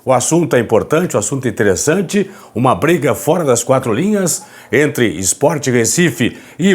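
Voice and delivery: hushed, hoarse voice from a sore throat; raspy whisper. Real, not acted. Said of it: "Falando baixinho aqui".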